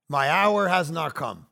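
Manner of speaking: slow, solemn non-answer; deadpan it mysteriously at the dinner table; cryptic friend. Pretend. Buddy at dinner answers oddly, slow cryptic. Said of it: "What's this playa doing?".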